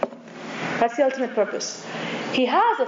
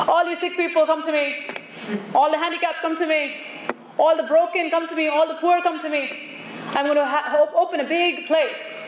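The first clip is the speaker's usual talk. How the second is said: higher, sing-out call to the crowds; mock grand invitation; 3 semitones higher than usual. Preacher imagines someone inviting all the suffering, mock grand invitation. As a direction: call each group in with the same repeated lilt.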